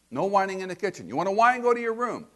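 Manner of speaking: loud, firm parental order; stern parent. Retold or imitated. Parent ordering a whining child to their room, loud and firm. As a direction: lay down the law to a whining kid.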